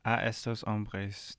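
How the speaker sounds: Spanish with a French accent. Real, not acted. Guest pronouncing a Spanish song title for the host, French-accented. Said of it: "I have, like, a French accent when I say Spanish".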